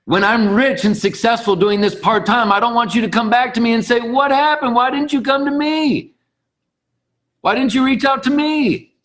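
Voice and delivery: high-pitched, sing-out impression; Jim Rohn. Motivational speaker imitated warning a friend, plaintive impression. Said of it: "in my best Jim Rohn voice".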